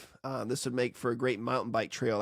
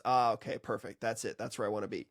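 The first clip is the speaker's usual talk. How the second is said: satisfied compressor; 3 semitones lower than usual. Acted. Compressor reaching its target, acted mild relief. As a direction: ease off, as if finally in place. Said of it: "And then it goes".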